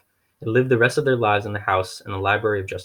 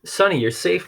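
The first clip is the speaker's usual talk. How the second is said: cried out; 9 semitones higher than usual. A narrator's reading. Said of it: "Klaus cried".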